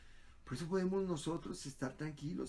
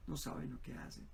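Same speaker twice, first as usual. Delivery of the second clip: near-whispered plea for forgiveness; hushed prayer; 5 dB quieter than usual. Retold or imitated. Jesus on the cross, praying for his killers, in a hushed voice. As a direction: breathe it out as a soft prayer.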